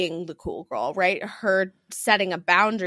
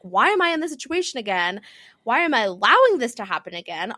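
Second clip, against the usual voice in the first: raised, quicker voice imitating exasperation; frustrated with herself; 4 semitones higher, 5 dB louder, faster than usual. Host voicing a contestant's self-questioning, imitated frustration. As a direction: mimic someone fed up with herself. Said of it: "she almost gets frustrated with herself".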